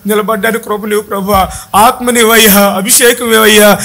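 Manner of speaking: demonstrated plea for mercy; acted prayer cry. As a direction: plead with God, phrase after phrase. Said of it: "ఏంటయ్యా మీ కేక".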